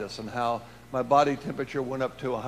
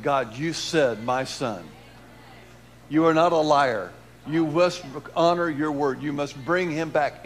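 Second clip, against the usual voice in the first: louder pleading prayer, slow at the start; mother crying out to God; 5 dB louder than usual. Retold or imitated. Mother crying out to God over her son's body, loud pleading. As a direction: plead with God, insisting he keep his word. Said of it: "She's saying".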